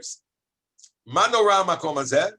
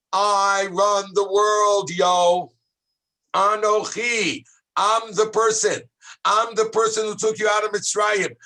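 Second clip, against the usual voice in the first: voice of God. Acted. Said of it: "Hashem is saying".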